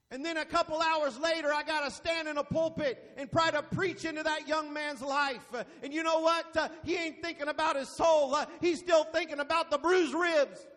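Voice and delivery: driving pulpit cadence with gasped breaks; rhythmic revival-style preaching. Real, not acted. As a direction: preach it hard, phrase by phrase. Preaches at full force.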